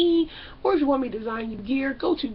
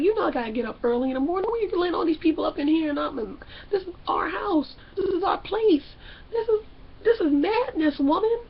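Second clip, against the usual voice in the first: mock exasperated rant; 5 semitones higher than usual. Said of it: "He's like".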